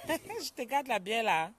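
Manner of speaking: slow, laughing repeat of the joke; laughing tease. Real, not acted. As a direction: laugh through the tease, stretching it out. Teasing viewer about beer.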